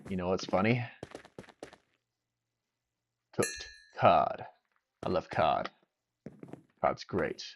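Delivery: mock-enthusing about cod, understated; doing a bit. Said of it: "Just doing bits".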